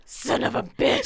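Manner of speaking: half-laughed, breathless and slow; laughing curse. Retold or imitated. Friend retells Alana's reaction, laughing out the curse. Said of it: "she's just like".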